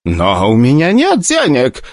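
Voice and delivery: high desperate plea; pleading. Acted. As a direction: beg for mercy. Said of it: "взмолился".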